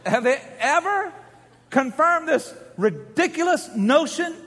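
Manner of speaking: impassioned preaching. Real, not acted. Preaches at full force.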